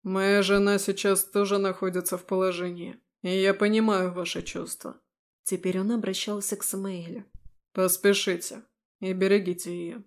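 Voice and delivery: calm, fatherly officer; kind commander. Acted. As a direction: gently send them on. Commander voiced kindly.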